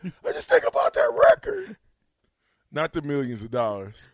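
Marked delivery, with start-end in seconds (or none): 0.0-1.8 loud, squeaky mock sobbing; hammed-up tearful imitation. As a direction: wail it in a high fake-crying voice. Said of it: "the way he got emotional".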